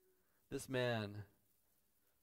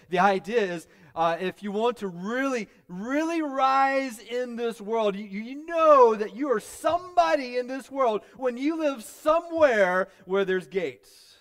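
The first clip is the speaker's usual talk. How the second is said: very loud, high pulpit cry with stretched words; slow, hammered high shout; full-force preaching; 10 semitones higher, 13 dB louder, slower than usual. Acted. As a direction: build to a booming, raised-pitch preacher's peak.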